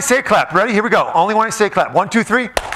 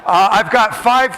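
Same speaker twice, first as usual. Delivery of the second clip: mock dreary lecturer; slower than usual. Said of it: "just kidding".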